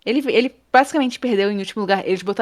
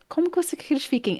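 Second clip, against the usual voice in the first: small high plea; 8 semitones higher, 6 dB quieter, faster than usual. Retold or imitated. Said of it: "Aí eu".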